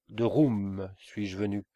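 proclamation lente et appuyée de « Roum »; cri. Acted. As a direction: lancer « De Roum suis-je venu » lentement, avec force. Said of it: "cria le mollah". (crier « Roum » en étirant le mot)

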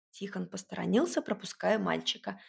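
ordinary delivery

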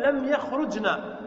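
slow, careful لم يخرجن; slow model phrase. Shown as a demonstration. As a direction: spell out لم يخرجن slowly. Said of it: "فنقول". (لم يخرجن ببطء)

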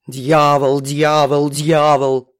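ниже, но громче, пронзительно; орать как сирена; заорала сиреной. A narrator's reading. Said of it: "заорала пронзительной сиреной". (Галя орёт из комнаты, громче)

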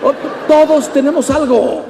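animated listing. Real, not acted. Lively listing ailments.

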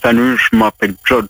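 put-on light American seducer accent; charming voicemail tone; leading man. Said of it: "Ouais, c'est bien". (séducteur à l'américaine)

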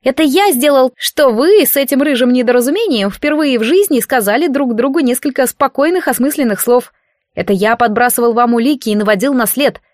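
put-on sulky child god. God in boy form reproaching the priestess, aggrieved. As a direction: list your good deeds like an offended kid.

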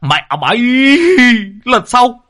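high, loud ranting curse; furious cursing. A narrator's reading. Neighbor cursing the speeding car, furious high shout. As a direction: spit out the abuse at full shout. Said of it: "nhe bộ răng Vẩu ra mà chửi".

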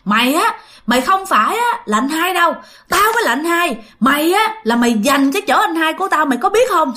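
put-on hostile ghostly brother snarling at the boy; cold threatening rebuke; angry scolding. Ghost tells the father he stole his place, menacing. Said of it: "trở nên rất hung dữ ... nạt và chửi".

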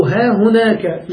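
"ها هناك" spoken slowly, stressing "ها"; slow example "ها هناك"; slow demo. Shown as a demonstration. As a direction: draw out "ها هناك" for the class. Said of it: "أو".

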